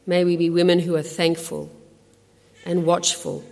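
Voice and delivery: subdued, earnest closing prayer. Real, not acted. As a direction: pray aloud gently on the congregation's behalf.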